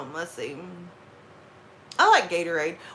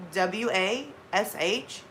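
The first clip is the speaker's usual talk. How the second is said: spelled out slowly; 5 dB quieter, much slower than usual. Retold or imitated. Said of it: "And I go".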